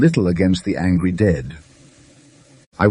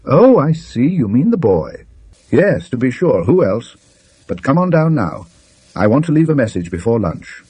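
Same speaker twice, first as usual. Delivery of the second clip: a hint of a higher, breezy gentleman; cheerfully brushing the matter aside, a touch higher; lightly voiced Manners; 5 semitones higher than usual.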